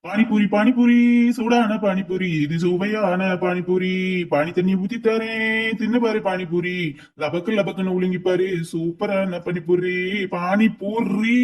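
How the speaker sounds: sing-song vendor call; hawker's cry. Acted. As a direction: cry out your wares. Hawker's chant.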